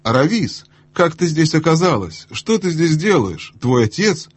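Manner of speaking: put-on high, thin girlish cry of surprise; squeaky high-society girl calling out; thin little voice. A narrator's reading. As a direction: pitch it up like a silly excited girl. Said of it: "крикнув тоненьким голоском".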